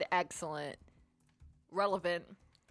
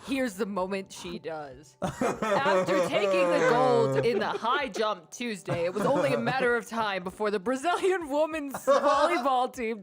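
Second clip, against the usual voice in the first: announcer voice. Acted. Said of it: "You have to do your announcer voice".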